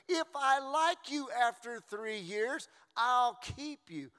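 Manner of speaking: preacher mocking the contract mindset, drawn-out whine; mock contract attitude. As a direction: lampoon a fickle spouse, slow and high.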